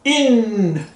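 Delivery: Une with lips pursed as for U while saying I; rounded une. Shown as a demonstration. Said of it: "biquinho de U e fala I".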